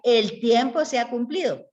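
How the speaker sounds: lightly voiced threatening prophet, like John the Baptist; stern prophet John. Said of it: "Juan decía".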